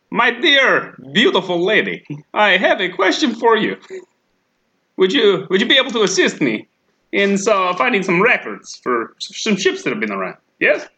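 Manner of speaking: flirting with the bored clerk, lightly smarmy. Pretend. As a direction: lay on the charm with a bit of lift.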